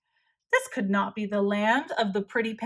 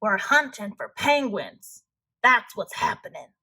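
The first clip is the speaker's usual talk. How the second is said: growled; 3 dB louder than usual. Acted. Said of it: "They growled".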